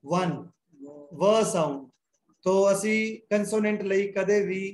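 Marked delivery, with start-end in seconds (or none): 0.1-1.9 "वन" begun on a clear w sound; sound demo. Shown as a demonstration. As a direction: isolate the "व" sound at the start of "वन". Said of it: "इत्थे आवाज की बन गई?". ("वन" में व की आवाज़ साफ़)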